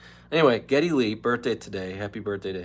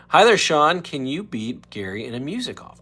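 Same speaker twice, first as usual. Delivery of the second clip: high, loud announcer greeting; Al Michaels call-in; 6 semitones higher, 10 dB louder than usual. Retold or imitated. Host does Al Michaels greeting Sean, loud and high. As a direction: open big like a sportscaster on the line. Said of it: "impression of Al Michaels".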